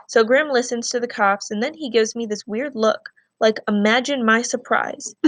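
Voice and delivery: reading a novel aloud to the class, steady and clear; story narration. A narrator's reading. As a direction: tell the story to students as a read-aloud. Teacher reads novel chapter aloud.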